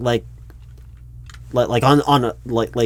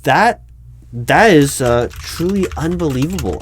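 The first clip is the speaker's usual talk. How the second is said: stunned disbelief; 4 semitones higher, 4 dB louder than usual. Acted. Interviewer to candidate who claims an 1890 degree, stunned disbelief. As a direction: pitch jumps up, louder, floored by the claim.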